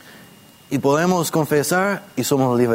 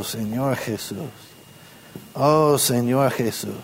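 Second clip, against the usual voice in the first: from deep within; 3 semitones lower, 4 dB quieter than usual. Shown as a demonstration. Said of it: "de lo profundo de nuestro ser". (invocación suave y lenta desde lo profundo)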